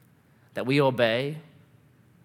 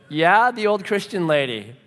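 acted reluctant admission, less forceful; sheepish confirmation; 3 semitones higher, 3 dB louder than usual. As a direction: confirm it awkwardly to a grouch.

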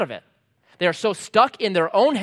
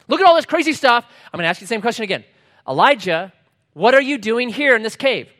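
exasperated; 5 semitones higher, 7 dB louder than usual. Acted. Acts God asking again, exasperated.

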